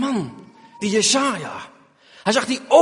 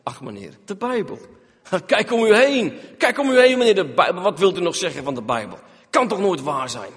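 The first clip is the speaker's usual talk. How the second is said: mocking skeptic. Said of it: "wat zeggen de mensen".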